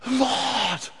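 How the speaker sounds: high, loud startled cry; joyful recognition. Acted. Mary recognising the risen Jesus, crying out. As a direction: recognise him suddenly. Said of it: "says this voice".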